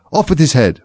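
high-pitched shouted order; furious shouting. A narrator's reading. Queen rampages round the game, shouting furiously. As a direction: shout a sentence in a passion.

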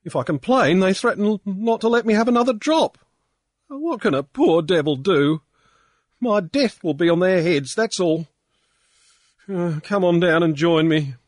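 high, loud tearful ranting; blubbering drunk. A narrator's reading. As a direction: blubber out your grievance. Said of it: "Pankburn was blubbering".

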